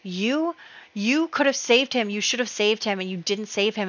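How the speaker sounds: retold angry accusation. Widow blaming the court wizard, mildly angry retelling. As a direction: accuse him, acting it out lightly. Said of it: "gets really angry with him".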